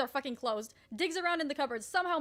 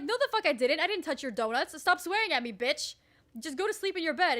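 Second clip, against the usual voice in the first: retold argument, raised voice; heated denial; 3 semitones higher, 4 dB louder than usual. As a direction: push back, exasperated. Retold quarrel over the donuts.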